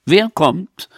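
high, smug triumphant voice; triumphant smile. Acted. Peach answers Renate, smug and triumphant. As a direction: gloat with a smile. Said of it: "lächelte triumphierend".

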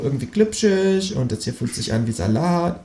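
high-pitched creature voice; kangaroo character. A narrator's reading. Kangaroo feeling around the plate, high-pitched. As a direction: puzzle it out in a high animal voice. Kangaroo judging food by touch.

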